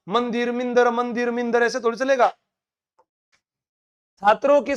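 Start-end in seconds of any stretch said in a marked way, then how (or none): 0.1-1.6 मंदिर, मिंदर alternated in a chant-like repeat; mock repetition of मंदिर against मिंदर; mock drilling. Shown as a demonstration. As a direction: rattle off man-dir, min-dar alternately. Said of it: "बार बार थोड़ी बताता रहूंगा".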